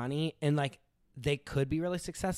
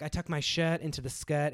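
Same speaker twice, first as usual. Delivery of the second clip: imitated elevated New York accent; Hamptons accent. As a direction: quote it in a British-tinged Hamptons accent. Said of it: "the Hamptons accent is what it is".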